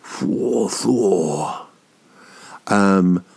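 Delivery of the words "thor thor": mock lovestruck "Thor" breathed twice; attracted swoon. Mimicking someone who sees a crush, a swooning Thor. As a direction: swoon over someone you fancy, "Thor, Thor". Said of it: "they go".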